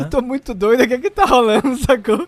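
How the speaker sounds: put-on loud, high, dazed party-girl voice; spaced-out girl voice. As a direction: play her totally out of it and loud. Repeating the Kimberly impression.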